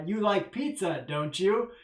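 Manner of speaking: "pizza" falling, then "don't you?" rising; a confident leading question; tag question expecting yes. Shown as a demonstration. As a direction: ask it sure of a yes answer. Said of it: "In English, that "don't you" at the end".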